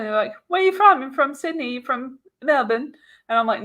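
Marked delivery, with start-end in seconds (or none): 0.5-2.9 higher-pitched, eager questioning; retold Australian couple's questions. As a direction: imitate curious strangers quizzing you. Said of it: "really thought I was Australian".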